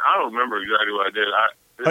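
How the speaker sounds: talking while chewing cereal; words round a mouthful; mouth full. Real, not acted. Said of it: "Are, are you eating?".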